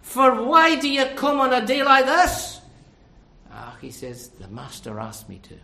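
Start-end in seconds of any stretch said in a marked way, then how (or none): 0.0-2.6 loud, high-pitched scolding of a caller; loud remonstration. Acted. Preacher voicing someone challenging a man who came out, loud remonstration. 4.3-5.5 low, quiet, simple answer; humble reply. Acted. A man explaining why he came for his master, quiet humble reply.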